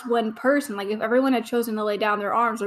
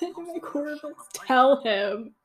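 whisper; 4 semitones higher, slower than usual. Real, not acted. Fan urging a character on, hushed whisper.

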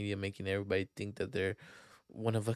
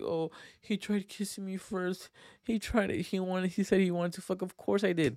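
mock girl gossiping; 8 semitones higher than usual. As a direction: whine it like a gossiping girl to friends. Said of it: "go up to her friends like".

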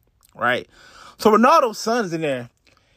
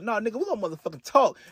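fast mock of a rapper; 3 semitones higher, 5 dB quieter, faster than usual. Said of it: "That's Ugly God".

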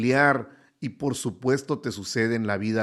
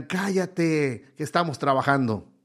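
mock yell; 2 semitones higher than usual. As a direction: fire back at the know-it-all on the hill, half-shouted. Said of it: "le gritan". (grito fingido a medias, más agudo)

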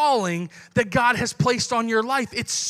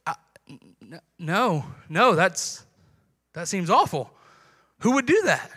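lower, recoiling disapproval; mock disgust; 6 semitones lower, 3 dB quieter than usual. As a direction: pastor mimicking an outsider repelled by tithing, lower voice. Mock non-believer recoils.

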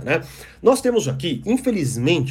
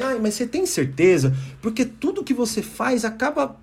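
sugary fake concern, pitched up, with a sting; cowardly condescending tone; 5 semitones higher than usual. Shown as a demonstration. Lecturer demos a passive-aggressive jab at someone's project, mock-condescending. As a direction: sound caring while sneering underneath. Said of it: "eu falo com esse tom, né, vagabundo, complacente".

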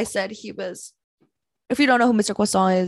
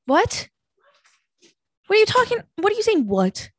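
high confused call; 12 semitones higher than usual. Real, not acted. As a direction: shout back in confusion. Shouting back to mom.

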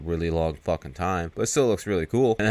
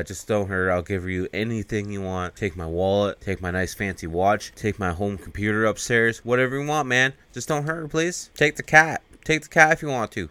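mock pleading; 2 semitones higher than usual. Husband pleads with intruder over his wife, mock pleading. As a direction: act out begging, pitch climbing as it goes. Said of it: "Michael pleading with the guy".

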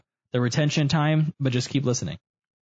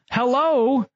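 mock reading; 7 semitones higher, much slower than usual. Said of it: "It says".

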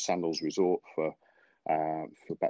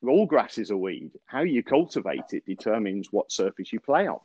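higher-pitched southern drawl, slowing on weed; a light imitation of the Southern superintendent lecturing; 5 semitones higher than usual. Superintendent teaching Andy about Bermuda grass, in southern drawl. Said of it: "it has to be said really in a southern drawl".

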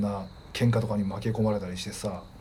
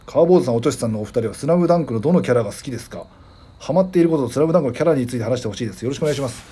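radio host reading a letter aloud; listener mail read-out; 5 dB louder than usual. Real, not acted. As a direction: read the message out evenly and clearly. Reads listener's message. (お便りを読み上げる調子で)

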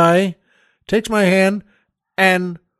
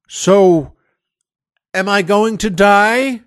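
blurted question; 4 dB louder, slower than usual. Retold or imitated. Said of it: "I just kind of blurted it out".

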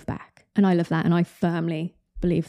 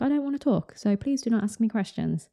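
moody brush-off; 4 semitones higher, 3 dB quieter than usual. Retold or imitated. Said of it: "in a certain mood where I'm like".

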